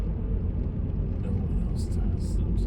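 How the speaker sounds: whispered aside. Real, not acted. Self-deprecating aside.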